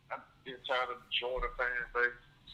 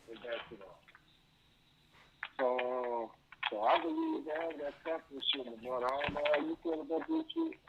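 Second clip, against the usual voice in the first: crackling mic; 4 dB quieter than usual. Real, not acted. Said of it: "your mic is crackling really bad too".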